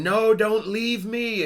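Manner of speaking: drawn-out, high-pitched mock cry; imitated yell. Pregnant woman calling after departing spaceships, imitated yell. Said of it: "she's yelling".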